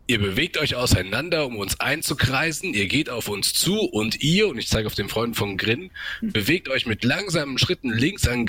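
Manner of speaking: a measured warning, called out only mildly; halbherzig laut gerufen. Acted. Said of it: "ruft quasi laut". (verhalten gerufene Warnung, langsam und betont)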